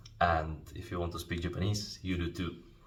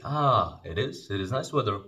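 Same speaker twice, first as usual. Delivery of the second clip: agreeing reply; 3 semitones higher than usual. Shown as a demonstration. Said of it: "others can say".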